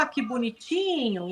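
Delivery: softly cooing at a cute puppy. Pretend. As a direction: coo over a puppy.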